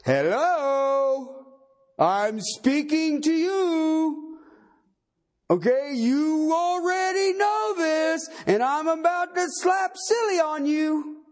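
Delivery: slow, pointed mock address; emphatic paraphrase. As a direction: lay it on like a stern teacher. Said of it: "the Greek tense emphatic, meaning".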